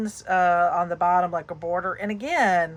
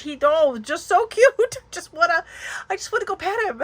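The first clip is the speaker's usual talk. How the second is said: much higher, cooing over a cute puppy; gushing excitement; 9 semitones higher than usual. Real, not acted. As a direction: squeal with delight at the cute dog. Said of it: "I just get so excited".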